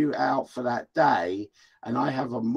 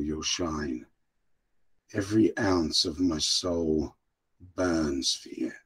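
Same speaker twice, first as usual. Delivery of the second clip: woo her like a gallant English gentleman, savoring every word; mock English romantic farewell; 10 semitones lower, 5 dB quieter than usual. Cohost bids the guest a flowery goodbye, a hammed-up English gentleman. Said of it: "say bye to Vicky in the very English way".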